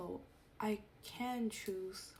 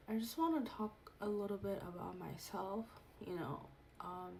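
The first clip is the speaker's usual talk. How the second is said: nervous, shaking voice; shaky voice. Real, not acted. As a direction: voice trembling with nerves. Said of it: "sorry if my voice is shaking".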